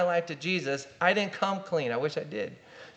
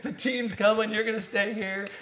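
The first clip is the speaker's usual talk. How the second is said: higher, louder firm dad to his son; 6 semitones higher, 6 dB louder than usual. Retold or imitated. Dad telling his crying son to stay, raised firm voice. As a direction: plant your feet and tell the boy he stays.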